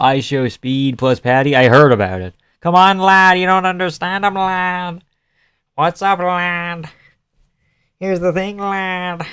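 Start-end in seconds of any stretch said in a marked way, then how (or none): 2.6-3.4 higher, louder British lad voice; playful British accent, raised pitch; mock British accent. 3.4-9.3 higher British lad voice, lightly done; a hint of a British lad; mock British accent.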